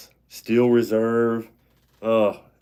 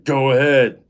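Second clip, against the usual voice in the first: imitating a friend's botched movie line, drawn out; raised mock-tough delivery breaking into laughter; 4 semitones higher, slower than usual. Retelling the friend's botched line to mom, mock-tough. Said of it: "and he said it wrong".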